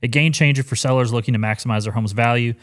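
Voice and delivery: scripted ad read, read aloud; sudden sponsor read. Acted. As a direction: read the sponsor copy straight. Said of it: "we gotta do an ad read".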